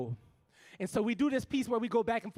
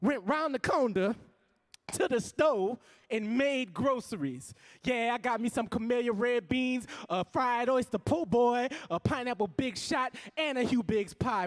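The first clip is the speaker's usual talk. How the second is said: rhythmic stage poetry with rising heat; spoken word poem; 2 semitones higher than usual. Acted. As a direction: perform it like a slam poem for a crowd.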